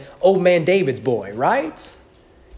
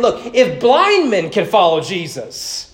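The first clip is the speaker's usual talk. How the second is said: challenging; 3 semitones higher than usual. Retold or imitated. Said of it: "he's almost as if he's saying".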